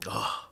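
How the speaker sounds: soft, whispered sigh; man's held-back cry. Shown as a demonstration. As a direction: breathe out a quiet, stifled sob-sigh. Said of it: "that's the boss man cry".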